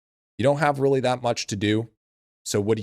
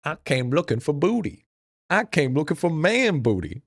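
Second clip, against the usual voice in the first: hammed-up quote; 6 semitones higher than usual. Quoting show line.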